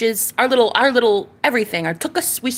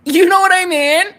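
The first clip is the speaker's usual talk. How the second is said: squeaky high put-on question; playful high-pitched aside; high mock voice; 8 semitones higher, 6 dB louder than usual. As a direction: pop it up into a silly high voice. Sudden high loud aside.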